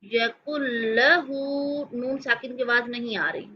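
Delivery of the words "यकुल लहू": यकुल लहू with न fully merged into ल; idgham. Shown as a demonstration. Teacher telling students to listen to the merge. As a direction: say यकुल्लहू with a doubled ल. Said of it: "गौर से सुने".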